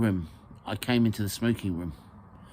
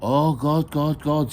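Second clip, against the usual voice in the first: raised chant with a smile; smiling prayer echo; 5 semitones higher, 5 dB louder, slower than usual. Acted. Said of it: "said the ladies with a smile".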